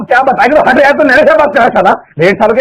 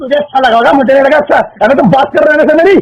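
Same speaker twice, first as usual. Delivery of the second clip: snapping back, a bit raised; annoyed, pushing to be heard; fed-up husband on the phone, irritated; irritated outburst; 2 semitones higher than usual. Real, not acted. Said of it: "इतना गुस्सा क्यों कर रहे हो".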